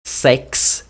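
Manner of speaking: "Sex" with a crisp K-S ending; isolated "Sex", X sounded as K-S. Shown as a demonstration. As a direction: show the KS at the end of "Sex". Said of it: "se pronuncia mais ou menos assim".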